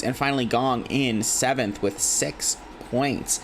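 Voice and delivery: paced announcer voice reading the scoreboard; esports caster standings read. Acted. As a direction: call out the standings like a broadcast.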